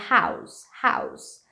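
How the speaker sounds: "house" with a voiceless S ending, not Z; S sound at the end. Shown as a demonstration. Teacher repeating for learners, "house" ending in S. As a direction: finish "house" on an S like the candy name. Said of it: "é som de S, tipo a balinha house".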